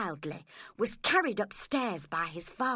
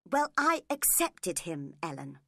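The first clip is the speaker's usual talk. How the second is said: said crossly; 3 semitones lower, 3 dB louder than usual. Acted. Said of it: "she said crossly".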